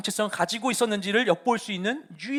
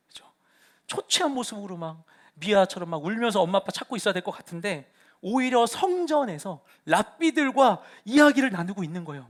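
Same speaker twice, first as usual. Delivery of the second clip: ordinary talk, nothing marked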